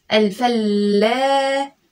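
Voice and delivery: الفلاح said very slowly with the lam held silent; slow careful reading. Shown as a demonstration. Teacher blending الفلاح slowly for the child. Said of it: "سكنت اللام".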